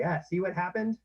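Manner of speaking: told-you-so. Shown as a demonstration. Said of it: "as opposed to just say".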